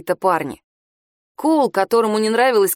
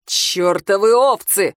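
fuming; 3 dB louder, slower than usual. Acted. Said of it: "вскипел он".

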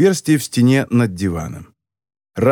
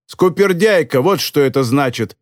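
angry. Acted. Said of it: "сердито перевела Мерви".

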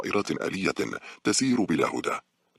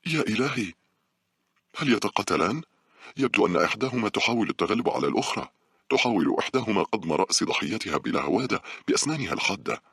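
higher, alarmed, a touch of panic; panicked; 5 semitones higher than usual. Acted. Sofia watching the giant worms, in panic. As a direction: gasp out the horror at the worms. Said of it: "قالت صوفيا بهلع".

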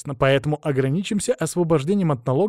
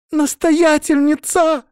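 high, drawn-out urgent shout; loud, agitated; 8 dB louder, much slower than usual. A narrator's reading. Novice bursts in calling the abbess, loud and agitated. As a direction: call out at full voice, each syllable stretched. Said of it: "громкий взволнованный голос".

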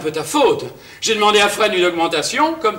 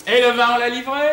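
higher-pitched mock-grand question; playing the master; 5 semitones higher, faster than usual. Pretend master asks the valet about deliveries, mock-grand. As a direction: put on a master quizzing his valet.

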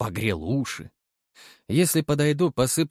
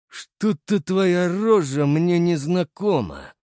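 thoughtful; 8 semitones higher, 4 dB louder, slower than usual. A narrator's reading. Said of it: "задумчиво проговорил Кривоносый".

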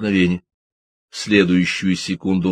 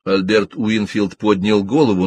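usual speaking voice

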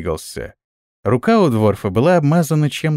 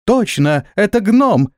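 high, chirpy agreement; chirping little folk; 8 semitones higher, slower than usual. A narrator's reading. Tiny winged people agree in chorus, chirping. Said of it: "в один голос защебетали все маленькие человечки".

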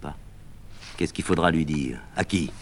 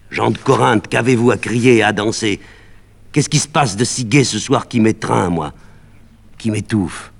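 loud, high call to the crowd; 7 semitones higher, 9 dB louder than usual. Acted. Médée calling out to the people of Corinth, loud and high.

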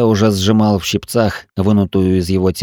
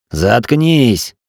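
exclaiming; 4 semitones higher than usual. Acted. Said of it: "воскликнул я".

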